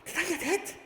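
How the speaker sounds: very high, loud frantic squealing; panicked yelling. Real, not acted. Player fighting off attackers in a game, high panicked shouting.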